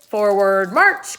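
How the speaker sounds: put-on girl marching herself in, shouting; loud command. A narrator's reading. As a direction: bellow forward march. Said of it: "came the next command".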